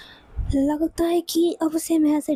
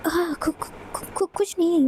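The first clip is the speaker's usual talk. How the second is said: nervous stammer; 3 semitones higher than usual. Acted.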